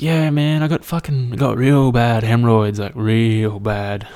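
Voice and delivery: lightly acted confiding bloke; oversharing mate. Mate confessing ailments on speakerphone, lightly acted complaint. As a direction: lean slowly on "real bad".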